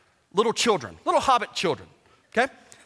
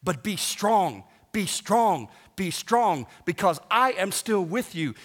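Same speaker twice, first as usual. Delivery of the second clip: gentle reassurance; 4 semitones lower than usual. Retold or imitated. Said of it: "the Lord comes and he says this".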